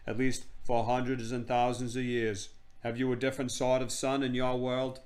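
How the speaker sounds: lightly voiced stately queen; haughty queen. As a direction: pronounce it as a queen.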